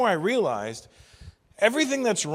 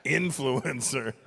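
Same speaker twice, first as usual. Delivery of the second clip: slow mocking repeat; 2 semitones lower, much slower than usual. Shown as a demonstration.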